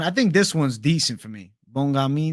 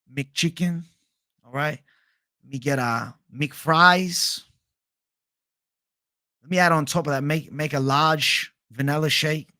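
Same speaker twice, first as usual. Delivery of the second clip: Tai Tuivasa impression. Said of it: "Tai Tuivasa putting his order in".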